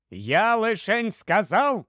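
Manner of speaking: sudden outburst. Acted. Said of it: "викрикнув раптом Свенсон". (стриманий вигук чоловіка)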